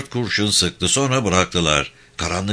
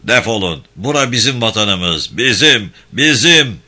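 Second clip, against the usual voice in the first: angry shouting; 4 dB louder than usual. Acted. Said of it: "hem söyleniyor hem kurşun sıkıyordu".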